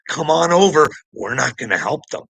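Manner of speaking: loud, high mocking call to Putin; hammed-up Trump waving Putin in; mock Trump invite. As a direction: belt it out like a careless offer. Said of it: "his little buddy Putin, anytime he wants".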